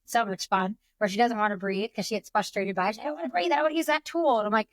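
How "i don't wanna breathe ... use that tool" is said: a higher, mock-whiny little girl refusing; whiny child. Mom imitating her seven-year-old refusing to breathe, whining. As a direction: pout it like a frustrated kid.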